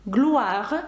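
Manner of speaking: "Gloire" said as "glwar"; "Gloire", OI sounding like "wa"; OI read as "wa". Shown as a demonstration. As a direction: say French "Gloire" with a "wa" vowel. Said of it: "О І передає звук уа".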